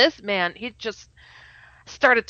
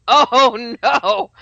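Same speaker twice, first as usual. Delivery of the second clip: laughing dismay; 5 semitones higher, 6 dB louder than usual. Retold or imitated. Dismay, retold vision.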